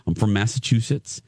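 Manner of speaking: lightly imitated Massachusetts accent; a hint of a badly faked Massachusetts accent; attempted Massachusetts accent. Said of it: "that's the accent you're doing".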